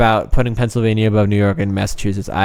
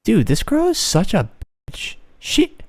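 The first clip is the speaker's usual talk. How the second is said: mock accuser building to a long, drawn-out cry; witch-trial accuser; 5 semitones higher, slower than usual. Friend imagines a witch-trial accuser condemning a girl, hammed-up. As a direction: play an over-the-top witch hunter. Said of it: "could you imagine being like".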